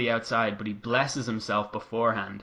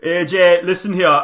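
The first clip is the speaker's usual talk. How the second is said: loud, higher hammed-up Irish brogue; Irish accent; 6 semitones higher, 12 dB louder than usual. Finn squaring up to AJ in a loud mock Irish accent. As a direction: give it a big stage-Irish swagger. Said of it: "I can do his accent if I wanted".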